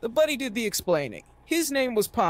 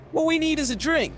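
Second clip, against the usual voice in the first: much higher, rowdy call for a drink; rally the group to the bar; yelled; 9 semitones higher than usual. A narrator's reading. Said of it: "yelled Ricky".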